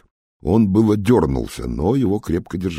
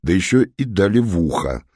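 ordinary delivery

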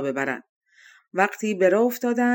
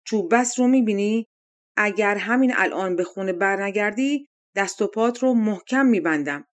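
calling out a threat. Acted. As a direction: warn the bear off with a firm shout. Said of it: "رو به خرس فریاد کشید". (فریاد تهدیدآمیز خیاط به خرس)

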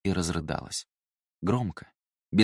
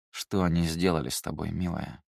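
tender; 2 semitones lower than usual. Acted. Mother comforts bleeding daughter.

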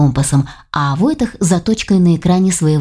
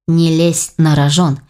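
stern order; 2 semitones lower, slower than usual. Acted. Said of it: "велел он".

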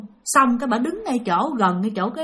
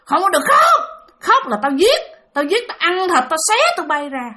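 higher, forceful menacing order; imitated threatening woman; 6 semitones higher than usual. Woman forbids frightened children to cry, imitated threat. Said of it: "Bà cứ nói rằng".

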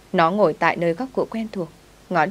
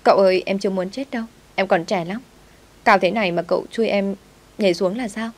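mildly raised, pleading protest; frightened cry; 2 semitones higher than usual. Acted. Maid on a wall tells master she fears jumping, frightened cry. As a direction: cry out in mild panic at the jump. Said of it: "Nó hét lên".

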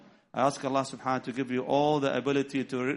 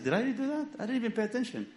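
astonished; 9 semitones higher, faster than usual. Retold or imitated. Repeats in stronger disbelief.

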